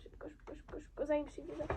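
urgent whisper; hushed urgency. Real, not acted. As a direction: whisper it fast and tense. Hurrying before friend returns.

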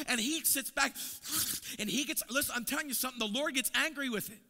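loud, high preaching build; full-force preaching. Acted. Preacher building fire for the congregation, loud high preaching. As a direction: preach it out, pressing harder.

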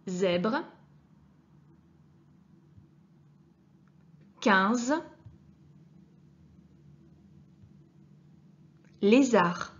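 words said slowly and clearly for the class; slow, careful reading of zèbre, quinze, lézard; slow model words. Shown as a demonstration. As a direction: sound out each word, leaning on the z. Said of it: "Comme dans les mots".

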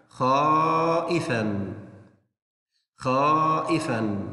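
slow, drawn-out word for the class; slow, clear model reading; slow teaching read. Shown as a demonstration. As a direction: stretch it out so children can repeat. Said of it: "أول كلمة".

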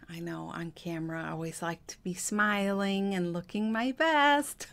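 ordinary talk

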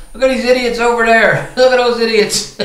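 mock them while cracking up; laughing. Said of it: "he starts laughing".

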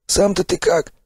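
high, cheery gruff stalker praise; hearty stalker. Acted. Sipliy cheers the revived narrator in a high, hearty voice. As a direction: clap him on the back with your voice.

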